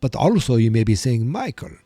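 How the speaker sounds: host welcoming listeners as a campy Transylvanian count; vampire accent. Pretend. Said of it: "with a very stereotypical European accent used for vampires".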